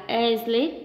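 asleep with the stress on -SLEEP; stress on second syllable. Shown as a demonstration. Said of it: "nó sẽ có trọng âm hai".

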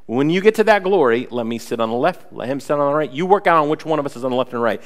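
a hint of eager disciples begging; lightly voiced, pushy and keen. Sons pushing their mother to ask Jesus, eager.

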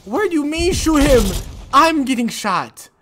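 usual speaking voice

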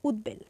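উদ্বেল said "ud-bel", falling; b kept. Shown as a demonstration. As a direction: sound the ব clearly in উদ্বেল. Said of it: "আমরা এটি উচ্চারণ করব".

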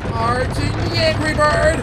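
rising charge-up call. Pretend. Repeats charge with more tension.

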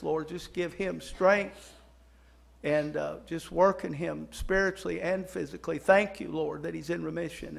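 earnest, projected pastor's prayer; public prayer. Real, not acted. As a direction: lead the congregation in prayer, pressing the key words. Leads the congregation in prayer.

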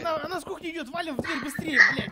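high loud urgent panic; yelling while fleeing; panicking gamer. Real, not acted. Monster coming, door locked. (паникующий геймер)

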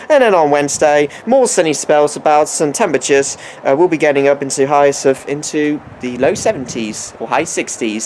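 light put-on American accent, weatherman style. Vlogger reading New York weather forecast, in a light American accent. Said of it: "I have to do the accent".

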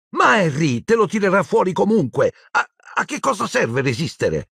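high, pleading, faltering; desperate girl. Acted. Hermione begging Harry to give in, desperate high plea. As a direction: plead in a high voice, near tears.

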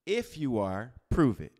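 pause, then a hard "prove it"; blunt challenge. Retold or imitated. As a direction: throw down the challenge, hitting "prove it". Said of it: "No, he said".

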